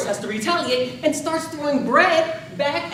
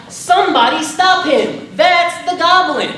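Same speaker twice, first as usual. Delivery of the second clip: loud, higher alarmed yell; retold shout; 4 semitones higher, 8 dB louder than usual. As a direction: call out to the crowd to stop the thief. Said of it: "shouted out".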